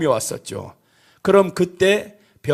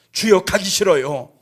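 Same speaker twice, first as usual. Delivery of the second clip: mock fearful plea; 2 semitones higher than usual. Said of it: "이 벌벌벌 떨고 있으면".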